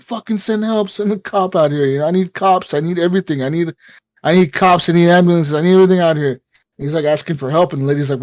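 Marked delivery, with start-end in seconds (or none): 0.0-6.4 higher-pitched, mounting mock desperation; half-screamed plea, piling up demands; retold screaming. Caller demands cops and ambulances from the operator, retold screaming. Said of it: "screaming, like".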